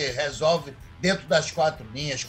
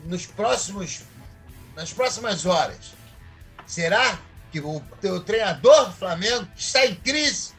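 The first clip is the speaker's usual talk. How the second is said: theatrical orator, emphatic rising phrases with pauses; discurso teatral; 3 semitones higher than usual. Acted. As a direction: proclaim it like a grand revelation. (discurso inflamado e pausado)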